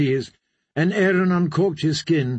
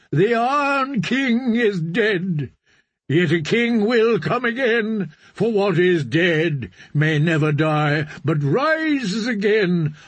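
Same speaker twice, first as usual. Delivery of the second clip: preaching; 4 semitones higher than usual. Acted. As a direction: lift it like a sermon on the shore. Priest preaching to drowned men.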